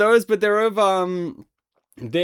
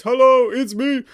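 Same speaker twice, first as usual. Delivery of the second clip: mock spooky greeting; 8 semitones higher, 6 dB louder than usual.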